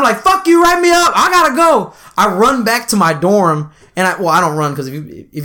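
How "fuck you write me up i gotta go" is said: high, raised-voice retort; mock defiant yell, pitched way up; retold defiant shout. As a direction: throw it back over your shoulder, re-enacted. Defiant retort to pursuing sergeant.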